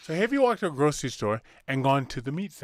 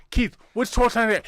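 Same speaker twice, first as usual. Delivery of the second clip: condescending mimicry; 6 semitones higher than usual. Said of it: "he said it like that".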